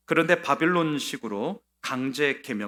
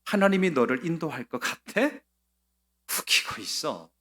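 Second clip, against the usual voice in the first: scornful king, louder on the threats; sneering taunt; 7 dB louder than usual. Retold or imitated. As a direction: taunt him from above, mocking his faith. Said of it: "속내가 이런 겁니다". (조롱하며 으르는 왕의 목소리)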